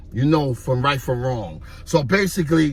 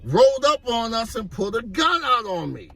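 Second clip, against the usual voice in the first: excited retelling; 8 semitones higher than usual. Retold or imitated. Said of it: "I'm like".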